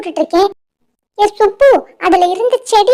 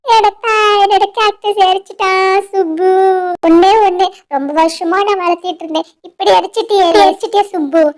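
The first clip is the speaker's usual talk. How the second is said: tearful wailing. Acted. Lily mourns the cactus Subbu burnt, crying. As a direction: whine tearfully through the grief, mildly hammed-up. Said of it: "ஏலே லில்லி, எதுக்கு இப்படி அழுவுற?".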